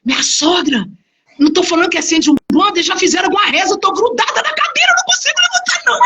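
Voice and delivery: retold panic climbing into a high squeal; fast, mounting alarm to a squeaky high pitch; startled, frightened. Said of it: "Aí eu assustava". (assustada, voz subindo em pânico)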